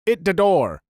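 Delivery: imitated Filipino accent. Babysitter to wild children at play, imitated Filipino accent. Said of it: "she'd say in her Filipino accent".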